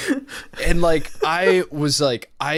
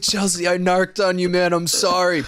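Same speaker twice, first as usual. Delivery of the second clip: put-on drunk apology; 4 semitones higher, 4 dB louder than usual. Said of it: "I was like".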